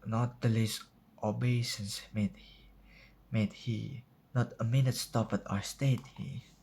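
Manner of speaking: measured reading with pauses between phrases; poem recitation. Acted. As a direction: recite it line by line, dramatically.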